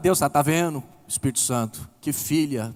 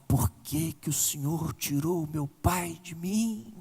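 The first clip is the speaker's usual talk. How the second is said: tearful question; 6 dB quieter than usual. Retold or imitated. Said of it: "E essa mulher foi chorando".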